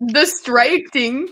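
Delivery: drawn-out "Distracting?" with an exaggerated Chicago "ay" vowel; mock the Chicago vowel in Distracting, slowly, as a question; mimicked Chicago accent. Friend teasing host's pronunciation, mimicked Chicago accent on Distracting. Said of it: "Why'd you say it like that?".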